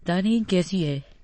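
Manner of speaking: slow, tender question; loving. Acted. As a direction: ask it lovingly, unhurried. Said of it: "बड़े प्यार से पूछा गया". (बड़े प्यार से, धीरे)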